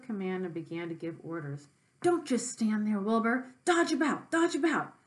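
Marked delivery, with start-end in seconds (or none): 2.0-4.9 high, loud goose voice urging; a goose yelling at the pig to dodge; goose crying out. Acted. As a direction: honk it out like an excited goose. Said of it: "cried the goose".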